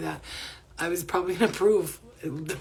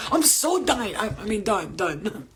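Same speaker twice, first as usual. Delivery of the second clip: mock mad reading; 2 semitones higher, 4 dB louder, slower than usual. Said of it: "You can't even spell right".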